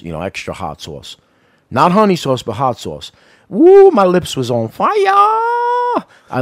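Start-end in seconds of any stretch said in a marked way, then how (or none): 3.5-6.4 stretched-out high delighted cry; ecstatic whoop. Real, not acted. Host raving to his co-host about hot wings, delighted. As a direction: rave about the burn in your lips.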